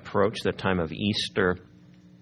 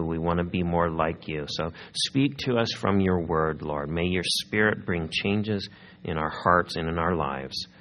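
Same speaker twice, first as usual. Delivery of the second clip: prayer; 3 semitones lower than usual. Real, not acted. Opening prayer.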